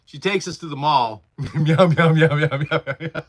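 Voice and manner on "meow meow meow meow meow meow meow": light cat meows with a laugh; goofy repeated meows; playful meowing. Pretend. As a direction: meow at someone playfully.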